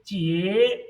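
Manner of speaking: "jie" dipping then rising; third tone. Shown as a demonstration. Teacher repeats the syllable, "jie" in dipping third tone. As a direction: fall and climb back on a drawn-out "jie". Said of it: "given tone is third".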